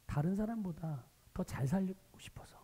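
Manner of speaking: soft, hushed whisper; whispered answer. Real, not acted. Pastor answering his own question, a hushed whisper. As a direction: say the answer almost under your breath.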